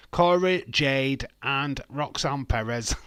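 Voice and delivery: names called out loud and high; mock announcing names. Streamer joking about the twins holding hands, mock announcing names. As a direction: punch each name out loudly, like a roll call.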